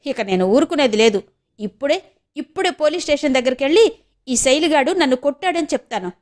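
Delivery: mild mock shouting; shouting threat. Furious girl threatens to go to the police, mild shout. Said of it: "అని అరుస్తూ".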